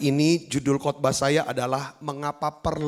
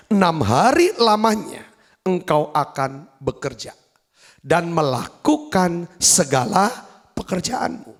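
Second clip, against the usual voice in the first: slow, measured public reading of scripture; slow, solemn reading of the Bible verse; 3 semitones higher, 3 dB louder than usual. Acted. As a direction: read the commandment aloud for the congregation. Reads Bible passage aloud.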